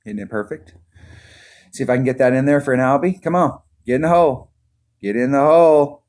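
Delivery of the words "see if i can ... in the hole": loud, high, fast urging; will the ball into the hole; excited urging. Real, not acted.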